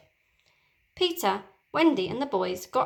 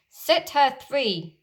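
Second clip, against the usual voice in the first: slow, commanding mock captain; slow captain order; 4 semitones higher, 4 dB louder, much slower than usual. Peter as Hook ordering pirates, slow.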